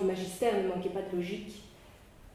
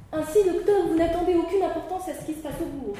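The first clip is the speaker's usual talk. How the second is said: tags 1; 8 semitones higher, 5 dB louder than usual. Acted. Judge questions the doctor.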